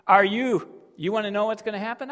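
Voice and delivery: God warning the prophet, building then dropping; voicing God. Preacher voicing God to Habakkuk, stern warning. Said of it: "God comes and says".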